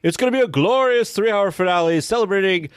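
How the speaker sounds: lightly voiced pompous eagle; grand proclamation, then drop for the punchline; a hint of self-important patriot; Sam Eagle. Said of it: "And he says".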